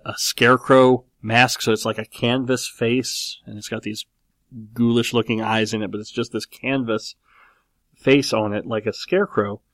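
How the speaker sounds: talking through cupped hands; muffled voice behind hands. Real, not acted. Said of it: "my muffled voice talking through my hands".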